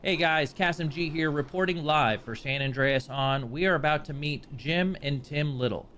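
TV reporter. Pretend. On-camera reporter intro.

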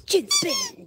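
sudden very high playful squeak; squeaky command. Real, not acted. Owner coaxing the dog into its chin spin trick, squeaky.

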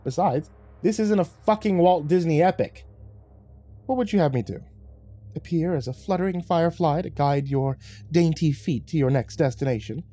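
high, theatrical, mocking devil; lilting sarcasm, toying with his victim; sardonic devil cat. Lucifer mocking the man's hope of guidance, high and theatrical.

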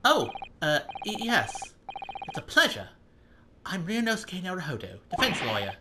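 lightly voiced, stammering young lawyer; a hint of a flustered defense attorney; timid polite hero voice; nervous young lawyer. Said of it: "probably Ryunosuke talking".

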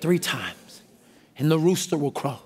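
Jesus, quietly. Acted. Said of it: "And he said".

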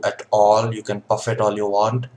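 talking around pipe stem; pipe in mouth. Real, not acted. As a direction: lips held on pipe. Seen 4: Hand holds pipe stem at open lips throughout speech.

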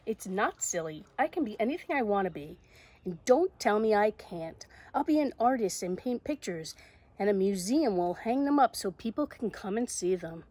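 emphatic storybook retort; insistent Zoe. Acted. Zoe standing up to the voice, insistent. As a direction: push back with lively conviction.

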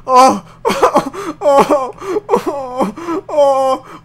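high, loud moaning whimpers; panicked whimpering. Real, not acted. Player cornered by the monster, whimpering in panic. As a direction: whimper repeatedly in fright. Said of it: "I'm oozing from his whimpering".

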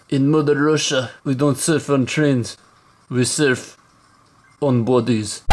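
put-on light Russian accent, slow on trains; a hint of a Russian accent. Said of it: "I could do a Russian accent myself".

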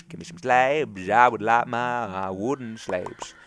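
slow drawn-out demand. Pretend. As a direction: insist on it like a spoiled kid. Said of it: "I would like some slabs, please".

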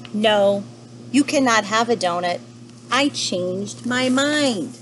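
lightly acted stern panda, slowing at the end; firm refusal. Mister Panda turns down the rude penguin, firm refusal. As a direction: refuse firmly, stretching the last words.

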